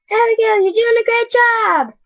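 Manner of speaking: high-pitched mock crowd cheer; crowd yelling. Crowd cheering Abigail on in the story, high-pitched yell. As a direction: call out encouragement, pitched well up. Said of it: "She could hear people yelling".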